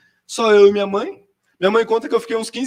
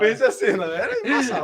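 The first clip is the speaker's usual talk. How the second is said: laughing; 4 semitones higher than usual. Real, not acted. Laughing at own childhood memory.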